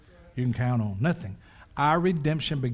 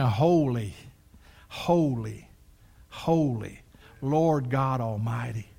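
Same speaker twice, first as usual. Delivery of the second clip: reverent; 3 semitones lower, slower than usual. Acted. Quotes the hymn of worship.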